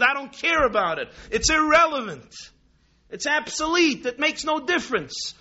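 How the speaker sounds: loud, high, furious teacher pounding the table; an angry communist teacher yelling at a boy in class; angry shout. Retold or imitated. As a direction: shout her down, furious and dismissive. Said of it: "was quite angry and she began pounding".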